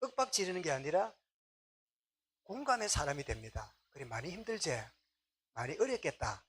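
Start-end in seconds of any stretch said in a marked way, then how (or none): 3.9-6.4 gentle empathy. Acted. Parent empathizing with child.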